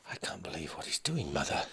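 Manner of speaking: hushed whispered disbelief to his mother; shocked whisper. Acted. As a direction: murmur it, stunned. Son in shock.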